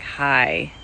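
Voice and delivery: deep, breezy mock HR brush-off; curt HR goodbye. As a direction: dismiss them lightly in a low voice. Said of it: "It's like".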